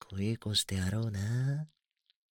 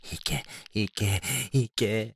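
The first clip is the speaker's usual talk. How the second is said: each command louder than the last; urging commands; 4 dB louder, slower than usual. Acted. Brother urging his sister on, each command louder. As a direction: push her on, building.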